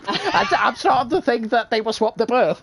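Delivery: high-pitched through laughter; laughing. Real, not acted. Teller joking about cousins' accents, laughing. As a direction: crack up while delivering the line.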